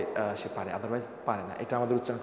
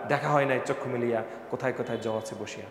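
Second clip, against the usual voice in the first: mock poetic; 3 semitones lower than usual. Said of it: "ভালোই তো কবি হয়ে গেলাম".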